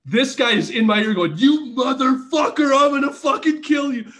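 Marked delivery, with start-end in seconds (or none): 1.4-4.1 higher, a hammed-up angry threat; playful furious threat in his ear; mock angry hiss in ear. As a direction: threaten him close in the ear, half-laughing. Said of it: "Like, not loud".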